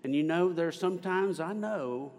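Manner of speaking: gentle impression, lifted above the narration; Miss Penner. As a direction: slip into her recognizable voice. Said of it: "I'm doing her voice, aren't I?".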